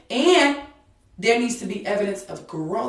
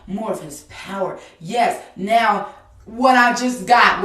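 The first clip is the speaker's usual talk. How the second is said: fervent prayer. Real, not acted.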